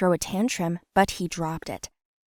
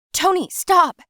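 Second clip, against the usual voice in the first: much higher, louder sudden call; urgent shout; 11 semitones higher, 6 dB louder, slower than usual. Acted. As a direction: stop her dead in her tracks. Smells gas, halts chase.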